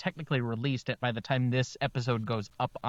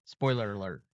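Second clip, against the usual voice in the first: whisper; 5 semitones lower, 3 dB quieter than usual. Pretend. Whispered spoiler warning.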